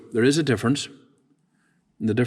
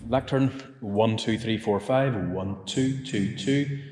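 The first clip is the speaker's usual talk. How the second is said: a softer counting check at the lectern; mic check; 4 dB quieter, slower than usual. Real, not acted. Engineer testing the lectern mic, counting softly.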